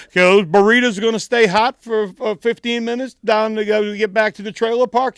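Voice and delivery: high, loud hick voice playing dumb; mock dumb redneck. Customer teasing the nervous clerk, high hammed-up hick voice. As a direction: ham up the clueless redneck.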